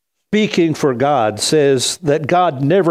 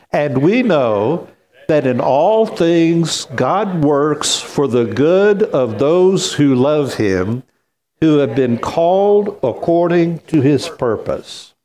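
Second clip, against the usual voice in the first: put-on call the kids to supper voice. Shown as a demonstration. Congregation reading scripture together, strong supper-call voice. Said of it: "call the kids to supper voice".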